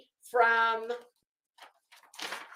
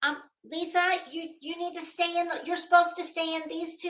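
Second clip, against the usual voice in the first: teacher quote; 7 semitones higher than usual. Retold or imitated. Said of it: "they were like".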